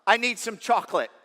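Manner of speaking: mock yell across the room; retold yell. Telling church how he yelled during the movie, mild yell. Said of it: "I just yelled out".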